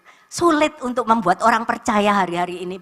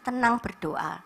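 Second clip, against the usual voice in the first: soothing advice; 4 dB quieter, slower than usual. Retold or imitated. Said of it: "Saya cuman katakan".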